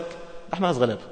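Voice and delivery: quiet, falling poor-me complaint; soft mock lament of poverty; mock self-pity. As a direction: play the man who thinks he has nothing. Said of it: "تلاقي نفسك".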